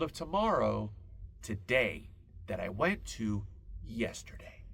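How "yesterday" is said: whispered punchline. Acted.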